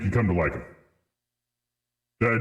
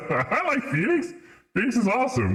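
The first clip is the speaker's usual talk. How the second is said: high insistence; 12 semitones higher than usual. Real, not acted. Streamer insisting to chat he likes Phoenix, high pleading.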